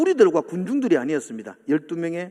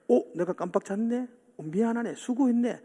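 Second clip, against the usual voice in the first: gentle apology; 3 semitones higher than usual. Retold or imitated. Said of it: "뭐 이렇게 말하는 게".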